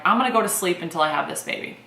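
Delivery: fast, laughing through the mock vow; joke-vow with a laugh, quick; laughing frustration. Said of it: "I'm so frustrated that I'm like".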